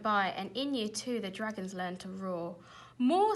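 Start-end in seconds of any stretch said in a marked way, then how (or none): 3.0-3.4 high, loud demand for more; bossy teacher's shout; commanding call. A narrator's reading. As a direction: urge the class to roar. Teacher demanding louder roars.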